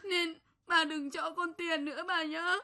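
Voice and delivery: a tearful, pleading voice with the last "bà" rising; crying plea. Acted. Child begging grandmother through tears not to give money. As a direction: beg through tears, as if on the edge of sobbing.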